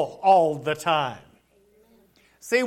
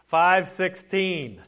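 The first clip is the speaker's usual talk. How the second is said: slow, measured verse reference; careful and slow; 5 semitones lower, slower than usual. Real, not acted. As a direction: take the Bible reference slowly. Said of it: "have to say that Thessalonians slow".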